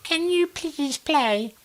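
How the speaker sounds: high, slow, dreamy drawl; slow, faraway drunk request; eyes-closed dreamy plea; drunk bloke with eyes shut. Retold or imitated. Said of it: "he'd have his eyes shut".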